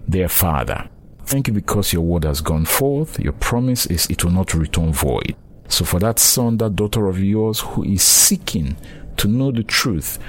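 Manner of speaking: earnest spoken prayer; preacher leading the audience in prayer, earnest. Real, not acted. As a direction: pray sincerely for the listeners. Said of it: "please pray with me".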